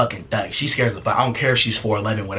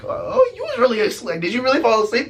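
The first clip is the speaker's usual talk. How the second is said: high-pitched incredulous question; half-believe the act, voice shooting up; astonished; 11 semitones higher than usual. Acted. Amazed by her acting.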